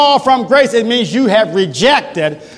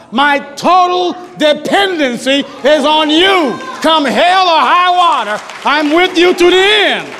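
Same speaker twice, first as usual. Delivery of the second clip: rising, preaching-pitch vow of trust; a laid-off believer vowing faith; fervent believer's prayer; 3 semitones higher than usual. Acted. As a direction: pledge total trust to Jesus with growing fire.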